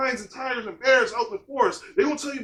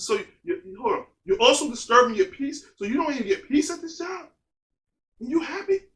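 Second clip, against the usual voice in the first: incredulous retort. Retold or imitated. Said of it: "I said".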